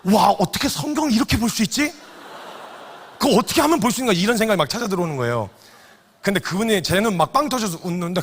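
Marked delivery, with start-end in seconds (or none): 0.1-4.2 laughing. Real, not acted. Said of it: "빵 터졌어요".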